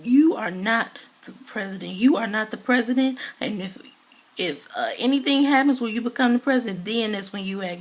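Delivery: mock forceful rebuke; going in on her. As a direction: act out putting someone in their place. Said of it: "just goes in on her".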